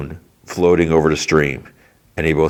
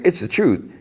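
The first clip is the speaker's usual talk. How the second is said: put-on high-pitched pleading boy; imitated frightened insistence; 12 semitones higher than usual. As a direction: insist like a scared kid, pitched way up. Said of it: "Will's, like, gasping".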